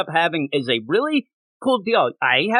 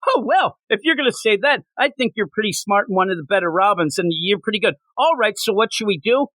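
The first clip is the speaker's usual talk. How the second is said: cheesy flattered reply; 5 semitones higher than usual. Retold or imitated. Acted Robin reply, high.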